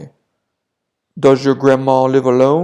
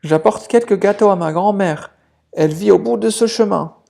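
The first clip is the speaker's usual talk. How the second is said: put-on a light little-girl voice, slightly higher; small voice; 5 semitones higher than usual. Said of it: "avec une toute petite voix". (petite voix de fillette)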